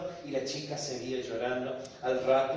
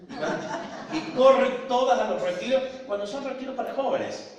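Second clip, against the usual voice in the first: laughing; 10 semitones higher, 7 dB louder than usual. Real, not acted. Joking about old ladies at retreats.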